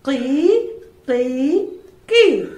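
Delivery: put-on chirping cry of a baby bird. Shown as a demonstration. Teacher shows class how the chick cried, bird cry. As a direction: mimic a chick's cry, three short calls. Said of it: "ഫർഹിന്റെ sound".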